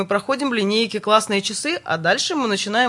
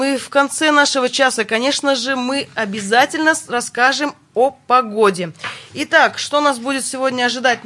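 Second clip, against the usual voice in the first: radio announcer; 2 semitones higher than usual. Acted. Host switches to sponsor read.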